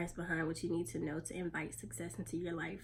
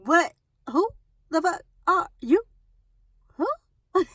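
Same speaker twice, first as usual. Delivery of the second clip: higher, mock-outraged question at a bird; what are you doing here, pitched up in disbelief; incredulous challenge; 9 semitones higher, 16 dB louder, slower than usual. Real, not acted. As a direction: demand it of the intruder, baffled. Confronting a bird on her car.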